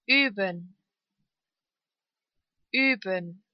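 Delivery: long ü in "Üben". Shown as a demonstration. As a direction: hold the first vowel of "Üben". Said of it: "Lang ausgesprochen".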